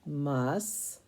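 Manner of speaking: "Mus-ty" scooped, rising through the syllables; "Mus-ty" scooped in a rising sweep. Shown as a demonstration. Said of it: "let's scoop it".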